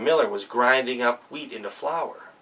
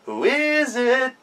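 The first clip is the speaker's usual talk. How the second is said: put-on high, slow child voices; small goats calling through the door; little kids; 11 semitones higher, slower than usual. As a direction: ask like timid little kids. Children answer the knock.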